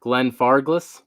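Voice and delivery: Glenfarclas sounded out slowly, unsure; slow, questioning attempt at Glenfarclas; tentative pronunciation. Real, not acted. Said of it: "okay, I'm gonna butcher it".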